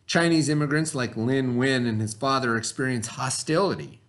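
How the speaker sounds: reading a story aloud to the class. A narrator's reading. Teacher reading the story to her students, storybook voice. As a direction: read it like a storybook for kids.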